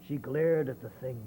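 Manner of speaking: lively rhyming read-aloud; story narration. Acted.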